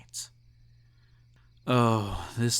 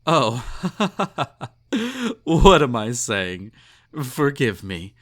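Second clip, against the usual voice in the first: flustered tipsy laugh; 3 semitones higher, 6 dB louder than usual. Acted. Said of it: "Ignore my drunken rambling".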